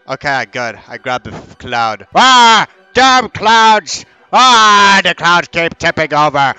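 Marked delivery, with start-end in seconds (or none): 2.1-6.5 hammed-up cranky elder; mock-furious elderly grumbling; angry old man. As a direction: rant like a fed-up old man, with raised yells. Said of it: "I'm so angry, old man".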